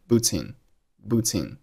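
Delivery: boots in run together; linked boots in. Shown as a demonstration. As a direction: carry the s of boots onto in. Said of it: "boots和in发生辅元连读".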